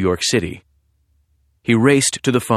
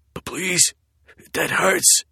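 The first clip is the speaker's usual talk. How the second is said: frightened pleading; 8 semitones higher, 3 dB quieter, slower than usual. Acted. Knife at neck, victim pleading.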